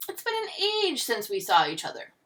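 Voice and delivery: high, loud theatrical greeting; starts high and big, then descends; gushing diva. A narrator's reading. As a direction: gush like a stage star meeting an old friend. Diva greeting an old friend.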